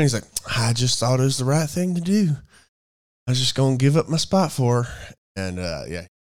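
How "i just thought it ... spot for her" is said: lightly imitated Southern country accent. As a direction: quote him with a mild Southern twang. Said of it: "he had that Southern accent".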